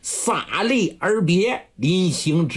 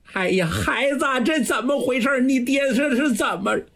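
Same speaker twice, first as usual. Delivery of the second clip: alarmed mother; 7 semitones higher, faster than usual. A narrator's reading. Mother asks what happened.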